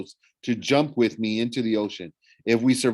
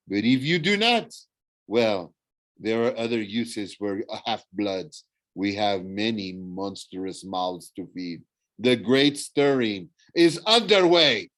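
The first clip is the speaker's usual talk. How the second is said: menacing villain. Acted. Thorne threatens the children.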